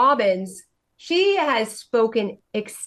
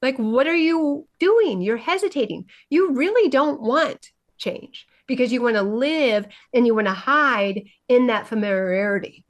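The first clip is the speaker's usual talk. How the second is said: a touch of heated challenge, pitch up; passionate challenge; 2 semitones higher than usual. Retold or imitated. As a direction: push her hard, mildly heated. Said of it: "And I said".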